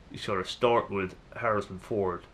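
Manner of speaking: lightly attempted American film-star impression; a hint of a badly faked American star; bad Harrison Ford. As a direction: have a half-hearted go at a famous American actor's voice. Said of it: "that was a bad impression of Harrison Ford".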